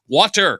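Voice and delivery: "water" enunciated with open ah and crisp t; standard "water". Shown as a demonstration. Longtime radio host showing his learned "water", crisp t. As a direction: say "water" the careful broadcast way, with a clear t. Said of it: "I learned how to pronounce".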